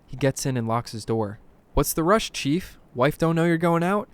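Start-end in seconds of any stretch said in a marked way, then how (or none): 1.7-4.1 higher, questioning cabbie banter; casual ribbing. A narrator's reading. Cab driver asks the old man about his hurry, casual ribbing. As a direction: toss the questions to a passenger, pitched up.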